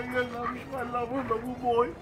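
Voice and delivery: soft murmured love to the dog; quiet tender dog talk; tender cooing. Real, not acted.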